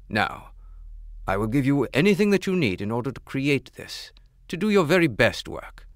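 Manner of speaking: stately, loud royal command; regal king voice. Acted. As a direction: speak as a proud king. King addresses the jeweler.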